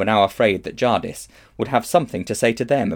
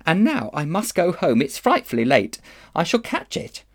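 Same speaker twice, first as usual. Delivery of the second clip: put-on higher-pitched, fretful child's voice; worried girl; 8 semitones higher than usual. A narrator's reading. Polly must hurry home late, anxious and fretful. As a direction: fret that you are in for trouble.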